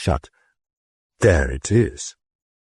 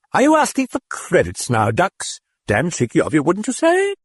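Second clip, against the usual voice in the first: cheeky British voice; 12 semitones higher than usual. A narrator's reading. The British voice ribbing the priest. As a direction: tease the padre in British.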